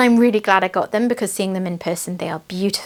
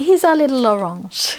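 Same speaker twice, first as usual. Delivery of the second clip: silly, put-on French accent; 4 semitones higher than usual. Saying a pet cat's nickname fondly: mock French accent. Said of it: "I don't know why the French accent".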